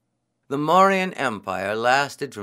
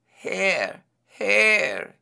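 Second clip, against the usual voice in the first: high, lightly drawn storybook call; 8 semitones higher than usual. A narrator's reading. Hungry priest hailing the hare, lightly calling out. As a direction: hail the animal in a high voice.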